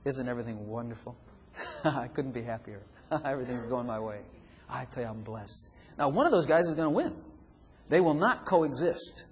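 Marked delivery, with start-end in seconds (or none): 0.0-5.7 happy believer. Acted. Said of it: "This one over here saying".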